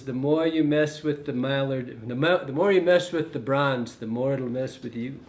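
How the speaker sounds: a light imitation of his fellow tyer's accent, quoting his saying; Davey's accent. Quoting fellow fly tyer Davey's saying about feathers, in a light mimicked accent. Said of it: "he's got that accent".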